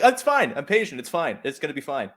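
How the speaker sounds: hammed-up polite holding it in; brushing it off while desperate; mock patient. Imitating patient passenger holding in.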